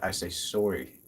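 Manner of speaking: "sorry" said with a Canadian rounded o. Shown as a demonstration. Showing how their accent turns out, "sorry" in Canadian pronunciation. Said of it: "the Canadian way of saying sorry".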